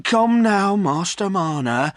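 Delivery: firmly. Acted. Landlord firmly settling Silas by the fire. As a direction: take charge of him. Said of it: "said the landlord firmly".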